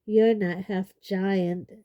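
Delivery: slow, croaky words. Acted. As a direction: croak it out slowly. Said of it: "said Hagrid croakily".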